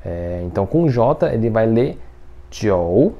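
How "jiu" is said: "jiu" as "tchiou", dipping then rising; third tone. Shown as a demonstration. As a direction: sink low on "jiu", then swing up. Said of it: "e o terceiro tom".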